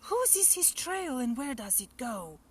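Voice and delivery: put-on high, curious child's question. Gruffalo's child asks where the trail goes, curious.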